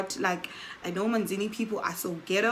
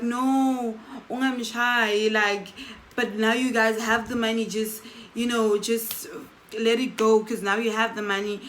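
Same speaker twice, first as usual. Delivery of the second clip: pleading; 2 semitones higher than usual. Retold or imitated. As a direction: beg him to stop. Pleading with man beating friend.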